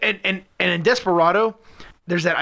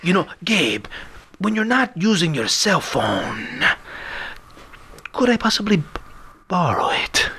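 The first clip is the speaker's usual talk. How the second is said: Spanish accent; 2 semitones higher than usual. Shown as a demonstration. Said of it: "purposely sound like you're from Spain".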